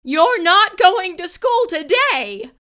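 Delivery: high, loud commanding mother; stern order. Acted. Mother ordering Camilla back to bed, loud stern command. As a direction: lay down the law firmly. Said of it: "her mother ordered".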